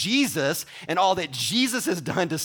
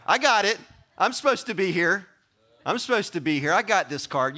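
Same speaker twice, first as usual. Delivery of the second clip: higher, louder, puffed-up triumph; smug pride; 3 semitones higher, 3 dB louder than usual. Retold or imitated. Preacher plays a shopper showing a Costco card, smug. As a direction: flash the card proudly.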